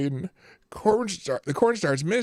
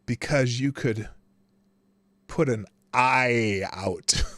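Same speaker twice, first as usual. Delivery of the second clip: slow whispered punchline; deadpan whispered payoff; 4 semitones lower, slower than usual. Acted. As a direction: deliver the punchline in a hush.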